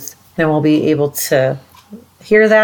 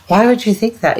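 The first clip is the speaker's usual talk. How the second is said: mock dramatic reaction; 5 semitones higher than usual. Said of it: "those more dramatic reactions".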